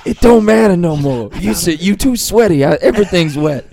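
mock AAVE voice. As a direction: slip into a caricature street voice, laughing. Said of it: "goes to black voice".

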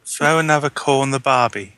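imitating a co-host's bad Australian accent; mock Australian accent. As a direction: mimic their Australian accent attempt. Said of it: "so this is your Australian accent".

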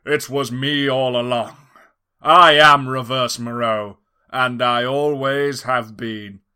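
loud, slow villain declaration; hammy mad scientist unmasking; villain reveal. Acted. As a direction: boom out the big reveal.

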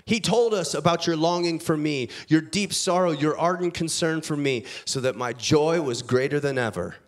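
measured, earnest reading of a Bible passage; scripture reading. Acted. Preacher reading Paul's letter to the church, earnest scripture reading. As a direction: read the letter to the congregation with weight. Pastor reads scripture aloud.

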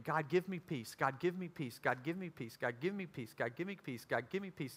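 soft, insistent repeated prayer. Retold or imitated. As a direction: pray it over and over, fading. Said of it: "kept praying over and over again".

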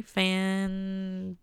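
dry, drawn-out sarcastic fantastic. Real, not acted. Complaining to viewers about a costly battery, dry sarcasm.

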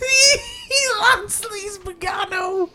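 laughing. Real, not acted. Slow, through laughter.

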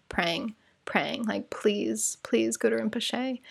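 soft whisper, pleading; whispered prayer. Shown as a demonstration. Whispering a prayer to Guru Rinpoche in line. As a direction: breathe the plea like a secret prayer. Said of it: "This is how I pray".

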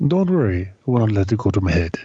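lightly voiced dim giant; Andre the Giant voice. Shown as a demonstration. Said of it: "say it with feeling".

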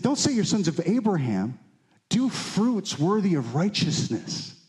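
lightly voiced John the Baptist. Prophet admonishing the people of Israel, mildly exhorting. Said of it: "what John the Baptist said to".

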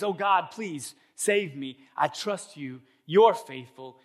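lightly dramatized fervent praying; acted prayer. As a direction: implore God with mock earnestness. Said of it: "And he prays".

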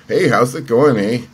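a light imitation of a cheerful Canadian accent. Happy-go-lucky Canadian colleague saying hello, mock Canadian accent. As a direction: lean lightly into the Canadian accent, easygoing and friendly. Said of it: "You know, with that accent".

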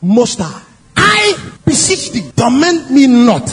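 slow, drawn-out plea, mildly cried out; demon's cry. Acted. Demon begging Jesus not to torment him, slow cry. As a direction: stretch each phrase like a proclamation. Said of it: "with a loud voice said".

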